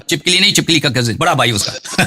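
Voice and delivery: talking through a laugh; amused. Real, not acted. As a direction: let laughter creep into the words. Joking about the lizard's cousin. (ہنستے ہوئے)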